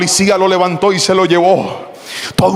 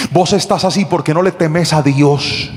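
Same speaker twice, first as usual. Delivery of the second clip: lower, measured fatherly reproof; stern admonishing; 5 semitones lower than usual. Acted. Pastor to the caught thief, stern admonishment. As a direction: list his failings firmly, low and steady.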